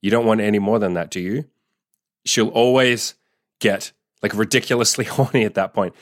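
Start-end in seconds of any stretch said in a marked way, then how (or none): 0.0-1.4 playful, joking tease; cheeky teasing. Shown as a demonstration. Man teasing his partner in bed, cheeky and joking. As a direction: tease her like you're withholding a treat. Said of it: "say it in a cheeky way, in a joking way".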